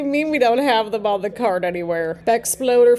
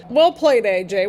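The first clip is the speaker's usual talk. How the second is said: excited praise. Real, not acted. To AJ after the referee's shove, excited praise. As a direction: cheer "Well played" at AJ.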